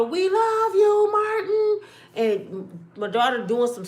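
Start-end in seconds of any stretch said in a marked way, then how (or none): 0.0-1.8 high, loud and drawn-out calling; hollering out. Retold or imitated. Fans calling out to Martin onstage, loud slow holler. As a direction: yell it up at the stage with love. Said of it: "And we holler".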